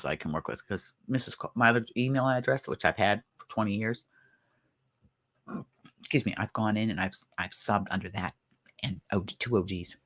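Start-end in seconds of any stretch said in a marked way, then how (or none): 6.0-10.0 with hiccups. Real, not acted. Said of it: "Excuse me, I got hiccups".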